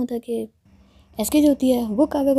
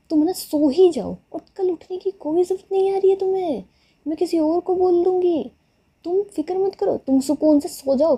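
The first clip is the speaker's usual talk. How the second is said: sarcastic scolding; 7 semitones higher than usual. Retold or imitated. Sarcastic telling-off of sleepy friend.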